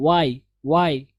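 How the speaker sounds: plain "why" with no extra breath; teacher correcting learners' "why"; correct pronunciation. Shown as a demonstration. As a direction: say "why" cleanly. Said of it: "like why की आवाज़ आप निकाल रहे हो".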